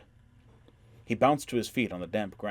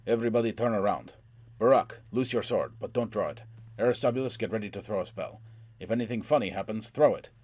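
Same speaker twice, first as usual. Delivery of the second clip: commanding orders; 2 semitones higher, 4 dB louder than usual. Acted. Dwarf giving battle orders.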